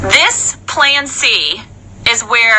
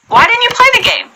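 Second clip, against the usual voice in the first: genuine curiosity; 11 semitones higher, 4 dB louder than usual. Shown as a demonstration. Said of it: "Just be genuine".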